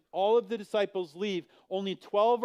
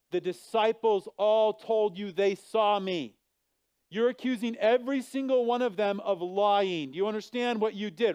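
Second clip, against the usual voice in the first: louder and higher scolding rebuke; reprimand; 5 semitones higher, 5 dB louder than usual. Acted. Preacher playing himself rebuking Thomas, raised scolding voice. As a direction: lay into the doubting disciple. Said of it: "I go and I reprimand him".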